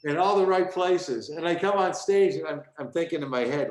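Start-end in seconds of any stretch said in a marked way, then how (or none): 0.0-1.3 loud emcee intro. Retold or imitated. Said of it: "he introduces me and he goes".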